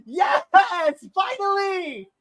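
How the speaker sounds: high, joyful release; excited relief. Real, not acted. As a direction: cheer it, finally relieved. Champion finally wins.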